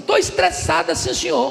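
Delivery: put-on high, whiny child's complaint; stressed little girl. Girl insists she's stressed.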